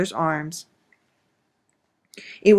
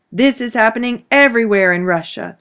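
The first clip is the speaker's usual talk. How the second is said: louder raised announcement; calling out; 4 semitones higher, 5 dB louder than usual. Acted. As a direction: call it out to the crowd. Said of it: "the commandant of the soldiers called out".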